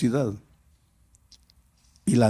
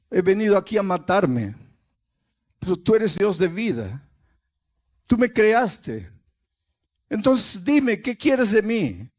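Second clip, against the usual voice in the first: desperate cry to God; 6 semitones higher than usual. Retold or imitated. Man on the mountain crying out to God, desperate plea. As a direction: plead with God at the edge. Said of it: "él habló con Dios a gritos".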